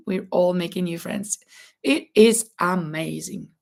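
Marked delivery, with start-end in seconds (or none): 1.8-3.5 hoarse, cracking voice. Real, not acted. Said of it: "Sorry about my voice cracking up".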